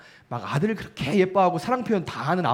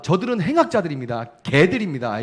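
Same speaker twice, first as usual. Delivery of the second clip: raised, louder accusation to God; denouncing enemies; 4 semitones higher, 4 dB louder than usual. Retold or imitated. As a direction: denounce them in fervent prayer, voice lifted. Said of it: "이렇게 부르면서".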